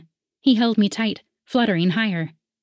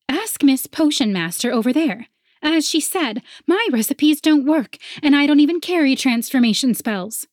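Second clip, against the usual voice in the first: sneering rival voice; 7 semitones higher, 3 dB louder than usual. A narrator's reading. Penelope mocks narrator.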